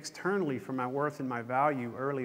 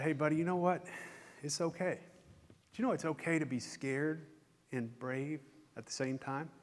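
put-on softly reassuring dad to a scared child; gentle reassurance, retold; 7 dB quieter than usual. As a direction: gently comfort a little boy, voice dropping at the end. Father reassuring his scared son.

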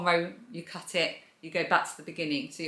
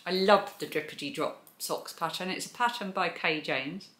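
mouth full. Real, not acted. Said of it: "Sorry for talking with my mouth full".

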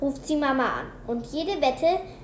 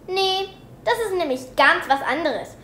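laughing; 5 semitones higher, 5 dB louder than usual. A narrator's reading. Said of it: "schmeißt sich vor Lachen über den Tisch".

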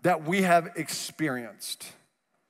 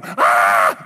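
sudden loud yelp, much lower; mock panicked scream; 12 semitones lower, 7 dB louder than usual. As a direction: let out a freaked-out scream. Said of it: "freak out".

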